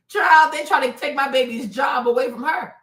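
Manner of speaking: normal talking voice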